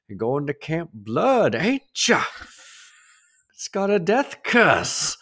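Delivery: slow, high ominous drawl; Crazy Ralph. Retold or imitated. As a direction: warn of doom with relish. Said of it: "That's Crazy Ralph".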